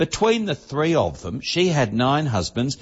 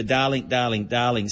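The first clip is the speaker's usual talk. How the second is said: Zsa Zsa Gabor. Retold or imitated. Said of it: "in her famous Hungarian accent".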